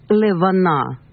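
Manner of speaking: "левана" with an audible short e after the l; подвижная шва. Shown as a demonstration. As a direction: say «левана» with the first shva voiced as e. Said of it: "вы произносите здесь швана". (подвижная шва в «левана», слышное «е»)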